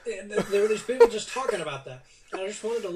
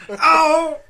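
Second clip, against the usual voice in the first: duck voice; 8 dB louder, slower than usual. Pretend. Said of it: "the Donald Duck voice when you have a sore throat".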